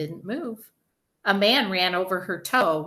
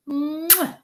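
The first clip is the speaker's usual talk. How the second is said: high, smacking mwah; big kiss sound; 10 semitones higher than usual. A narrator's reading. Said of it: "gave her father a big kiss".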